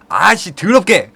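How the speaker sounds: slow, loud, high disgusted outburst; angry snap. Retold or imitated. Takayama lashing out at the coach's oily hands, angry outburst. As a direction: spit out the disgust.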